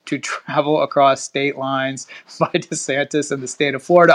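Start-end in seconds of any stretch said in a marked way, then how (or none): 2.4-4.1 reading through a suppressed laugh; chuckling mid-sentence; real amused laugh. Real, not acted. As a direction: crack up slightly while reading, then apologize. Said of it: "I'm sorry, I'm laughing".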